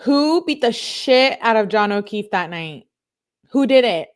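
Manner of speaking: venting anger at the unsolved case; exasperated outburst. Real, not acted. Creator demanding answers about the killing, loud and exasperated.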